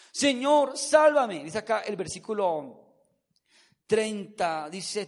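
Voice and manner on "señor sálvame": high, loud plea for rescue; acted frightened shout. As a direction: cry out as if going under, acted. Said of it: "se asustó y comenzó a gritar". (grito asustado de auxilio, actuado)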